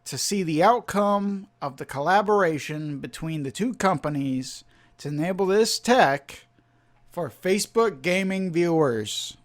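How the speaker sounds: robotic voice. Shown as a demonstration. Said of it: "I think he sounds way more robotic".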